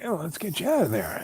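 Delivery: lightly acted urgent call; imitated rescuer. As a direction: play the rescuer stepping in. Rescuer calling to stranded couple.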